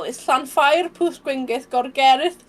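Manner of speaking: "Llanfair, Pwll Gwyngyll" said in Welsh, part by part; careful Welsh pronunciation. Shown as a demonstration. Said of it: "I have to say it slow".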